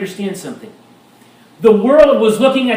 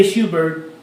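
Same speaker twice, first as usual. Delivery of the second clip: laughing shoo; 4 semitones lower, 4 dB quieter than usual. Retold or imitated. Nobleman shooing bird from robe.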